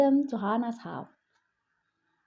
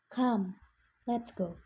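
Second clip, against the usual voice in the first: calm mother; 7 dB quieter than usual. Acted. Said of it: "Mom said".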